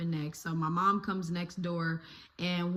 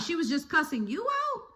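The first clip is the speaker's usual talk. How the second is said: imitating mom; 8 semitones higher than usual. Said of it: "she was like".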